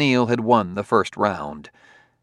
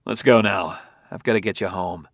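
curt. Acted. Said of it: "He said curtly".

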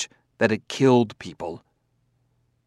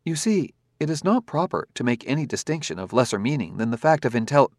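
higher, even, polite robot; calm robot voice; 3 semitones higher than usual. Acted. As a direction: speak as a courteous, precise android. Robot character held voice.

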